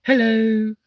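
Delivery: mock cheery shout at a stranger in the dark; pretend loud hello. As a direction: call out as if startling him with a torch. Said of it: "can you imagine".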